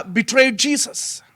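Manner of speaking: hushed whisper. Real, not acted. Preacher naming Judas's betrayal.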